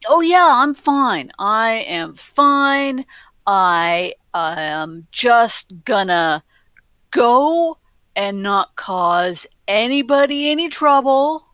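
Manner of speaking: mildly nervous, halting reassurance; a touch of anxious backing down; intimidated. Acted. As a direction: placate them with drawn-out, hesitant words. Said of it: "he is very obviously quite intimidated".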